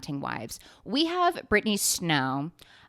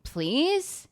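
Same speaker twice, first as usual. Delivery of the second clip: pleading; 3 semitones higher, much slower than usual. Retold or imitated. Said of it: "I was like".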